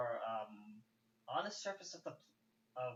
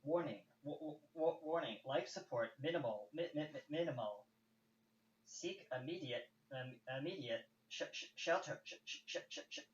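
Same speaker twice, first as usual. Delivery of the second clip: glitchy robot voice. Acted. Glitchy ship voice continues.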